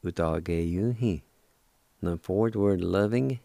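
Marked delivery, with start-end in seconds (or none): 0.0-1.2 "U-do-ge-yu-hin" spoken slowly, each syllable spaced; slow "U-do-ge-yu-hin" down for learners; slow demo. Shown as a demonstration. Teacher repeating "U-do-ge-yu-hin" slowly. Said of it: "pronounced like this".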